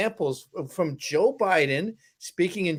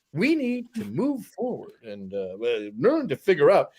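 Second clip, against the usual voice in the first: put-on Roger Stone accent; 3 semitones lower than usual. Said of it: "he has a very distinct accent".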